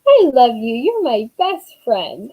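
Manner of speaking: lightly voiced affectionate kid; a hint of a doting child, drawn out at the end; Jason, sweet child. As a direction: imitate a small child's bedtime declaration of love. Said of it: "and then Jason goes".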